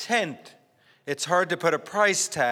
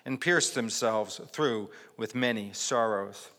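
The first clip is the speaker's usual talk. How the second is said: scripture reading. Acted. Pastor reading First Timothy to the congregation, measured. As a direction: read the passage with weight.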